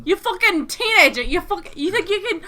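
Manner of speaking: laughing Cockney rant. Acted. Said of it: "horrible Cockney accent".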